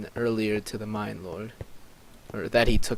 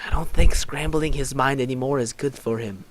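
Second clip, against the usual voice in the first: flowing, louder, slightly raised delivery; in-character objection; 2 semitones higher, 5 dB louder than usual. Acted. Player's character objecting about Zane's mind, flowing objection. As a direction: say it as one unbroken line, projected. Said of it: "I was like".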